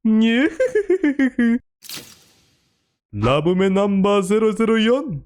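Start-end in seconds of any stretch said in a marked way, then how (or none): 0.0-1.6 high giggly anime laugh; cute girlish nyufufu giggle. Acted. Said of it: "different voice impressions".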